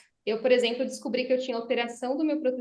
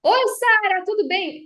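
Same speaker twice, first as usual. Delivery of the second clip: loud, high yelled greeting; shouting greeting; 8 semitones higher, 9 dB louder than usual. Shown as a demonstration. Speech coach demos shouting a greeting to Sara, loud high yell. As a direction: shout the hello across the room. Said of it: "Por exemplo, se eu tô aqui e falo".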